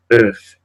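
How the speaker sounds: earth said as French oeuf, open eu and a clear final f. Shown as a demonstration. Teacher modelling the word for egg, careful. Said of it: "la F final sí se pronuncia".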